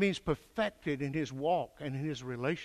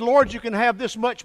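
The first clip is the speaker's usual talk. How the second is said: mock half-hearted prayer; 7 semitones higher, 11 dB louder than usual.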